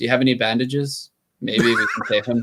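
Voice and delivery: very nonchalant, casual, offhand tone. Role-playing player speaks in character to the female elf, very nonchalant. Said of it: "in a very nonchalant voice".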